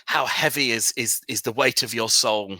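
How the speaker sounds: single someone out with a portentous question; solemn preacher. Acted. Cult preacher challenges an adventurer about his soul, solemn and probing. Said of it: "he says".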